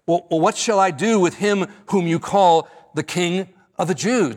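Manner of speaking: a touch of fed-up pleading, lightly acted; exasperated. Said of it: "Notice how exasperated in verse twelve".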